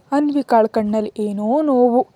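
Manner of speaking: usual speaking voice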